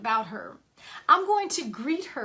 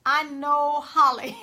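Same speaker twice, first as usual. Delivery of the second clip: said slowly through a laugh, a bit louder; 3 dB louder, slower than usual. Retold or imitated. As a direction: chuckle it out, amused at herself. Repeats line, laughs after.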